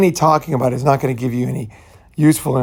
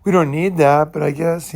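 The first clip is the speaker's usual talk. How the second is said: higher-pitched, half-hearted going along; lightly mocked hedging, pitched up; placating girlfriend; 4 semitones higher than usual. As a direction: imitate a woman reluctantly humoring her partner. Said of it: "they'll talk like that".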